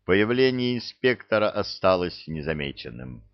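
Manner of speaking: ordinary delivery, nothing marked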